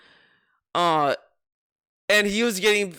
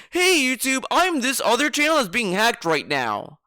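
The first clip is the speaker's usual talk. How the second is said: lightly acted, higher-pitched appeal; pretend pleading caller; 5 semitones higher than usual. Random channel telling YouTube of a hack, pretend pleading. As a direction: put on a hint of urgent pleading. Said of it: "A random channel is gonna say".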